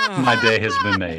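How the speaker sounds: laughing through the words; delighted laugh while talking. Real, not acted. Laughing after the song.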